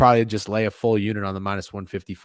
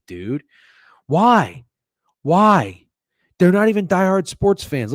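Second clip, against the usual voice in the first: higher-pitched exasperated outburst; angry rant; 5 semitones higher than usual. Real, not acted. Bettor ranting about late start times, exasperated. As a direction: rant in indignant disbelief.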